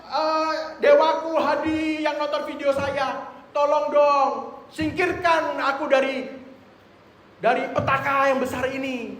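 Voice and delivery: shouted "Oh", then slow, high pleading; a father calling out from disaster, slowed and high; anguished cry. Acted. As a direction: beg the god to save him, drawn out. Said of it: "dia teriak lagi".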